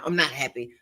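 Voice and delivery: P=A; mock disappointed. Mocking her own restless chasing.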